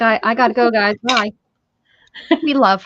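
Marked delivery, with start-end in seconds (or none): 0.0-1.3 mock Beth leaving. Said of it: "She's like".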